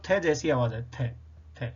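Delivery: "थे" said with tongue between the teeth; "थे" को दांतों के बीच जीभ रखकर बोलना; th sound demo. Shown as a demonstration. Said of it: "दांतों के बीच जीभ रखकर बोलेंगे".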